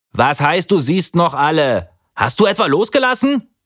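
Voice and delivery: put-on high, alarmed girl's voice; panicky. A narrator's reading. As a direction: demand an answer in panic. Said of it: "rief Sarah panisch".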